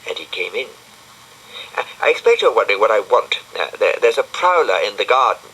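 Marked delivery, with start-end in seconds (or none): 1.8-5.5 hurried nervous. Acted. Brian nervous at 3 a.m.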